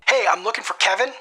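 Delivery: bright, high-pitched friendly greeting; high energy. Shown as a demonstration. Cold caller greeting the gatekeeper with high-energy friendliness. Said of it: "the friendly".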